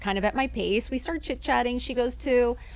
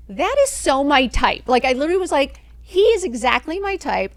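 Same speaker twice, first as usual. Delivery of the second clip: smitten; 5 semitones higher, 7 dB louder than usual. Retold or imitated. Sees attractive guy.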